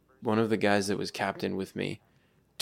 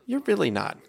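teacher voice; 11 semitones higher than usual. Retold or imitated. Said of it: "I'm like".

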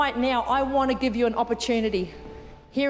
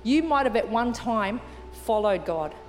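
gently lowered, reverent invitation; altar call; 4 semitones lower than usual. Real, not acted. Leads an altar call, eyes closed.

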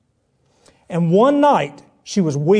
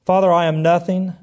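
prayer. Acted. Leads prayer.

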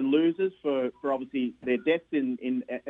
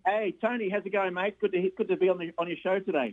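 friendly greeting in an Australian accent; 3 semitones higher than usual. Real, not acted. Australian caller greeting the radio host, Australian accent. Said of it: "What kind of accent is this?".

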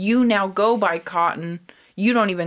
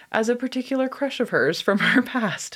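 higher, teasing gossip reveal; gleefully reading gossip; 7 semitones higher than usual. Real, not acted. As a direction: dangle the juicy news.

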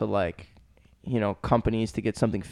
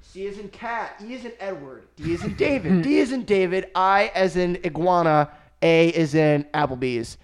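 spelling out name; 5 semitones higher than usual. Retold or imitated. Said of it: "And he's like".

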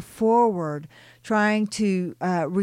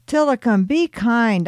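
higher and louder, a firm scolding call; sharp rebuke; 5 semitones higher, 6 dB louder than usual. Acted. Narrator rebukes Tillicum for mocking Ariel, loud sharp rebuke. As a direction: snap his name to rein him in. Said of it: "I rebuked".

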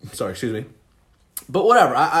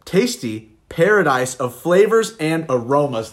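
slow, showy commercial read; 2 semitones higher, slower than usual. Acted. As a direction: sell it like a beer ad. Reads the label in an ad voice.

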